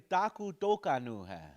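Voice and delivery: put-on full old form Daku Dokanu hai. Shown as a demonstration. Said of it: "if you were to say it ... the old version".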